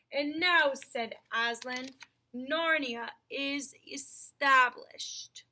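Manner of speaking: slow, grave lion king; lion's solemn voice. Acted. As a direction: speak it slowly like a noble lion. Aslan speaking solemnly.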